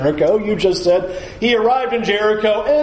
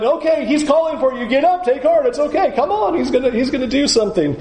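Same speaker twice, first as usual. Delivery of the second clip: eager urging; 6 semitones higher, faster than usual. Retold or imitated. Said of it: "You're telling him".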